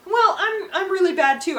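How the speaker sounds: high, loud with a laugh on it. Retold or imitated. Hyacinth laughing about her flaws to comfort Gareth. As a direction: laugh it off to cheer him up.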